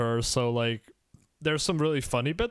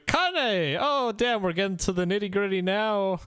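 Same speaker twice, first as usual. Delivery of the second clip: excited; 7 semitones higher than usual. Real, not acted. Hyping the next character topic.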